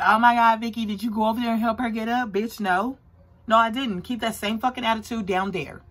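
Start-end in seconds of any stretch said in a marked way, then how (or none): 0.0-2.3 mock viewers. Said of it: "I know all y'all like".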